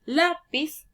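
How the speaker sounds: teacher sounding out a word; syllable by syllable. Shown as a demonstration. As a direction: separate the two syllables clearly. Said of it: "al separarlas en sílabas".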